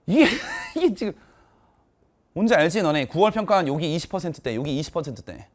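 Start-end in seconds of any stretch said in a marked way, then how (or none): 0.1-1.1 high voice breaking into laughter; incredulous laughing. Real, not acted. Teacher reacts to absurd answer rates, incredulous laughing. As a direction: laugh through the words in disbelief.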